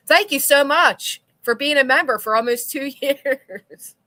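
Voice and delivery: loud laughing gratitude; laughing thanks. Real, not acted. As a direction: thank them through a laugh.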